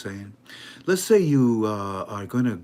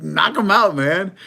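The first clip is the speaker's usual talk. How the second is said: loud cheer; 7 semitones higher, 9 dB louder than usual. Acted. Shouting encouragement.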